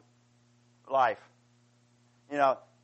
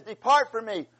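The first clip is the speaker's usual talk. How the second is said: louder and higher, triumphant declaration; fervent raised psalm reading; proclaiming the psalm; 5 semitones higher, 8 dB louder than usual. Retold or imitated. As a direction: ring it out like a preacher at full force. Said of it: "it says".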